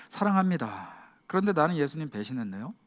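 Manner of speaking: hushed guilty admission; ashamed confession. Acted. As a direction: confess it with your head down. Ashamed Peter answers Jesus.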